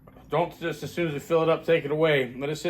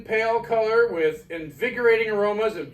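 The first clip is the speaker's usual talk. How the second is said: product blurb read; 3 semitones higher than usual. Acted. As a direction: sell it like a beer commercial. Reads product blurb aloud.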